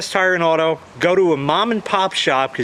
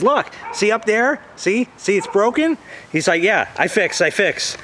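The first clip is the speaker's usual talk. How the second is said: mechanic's voice; 5 semitones higher than usual. Retold or imitated. Mechanic shows broken pipe.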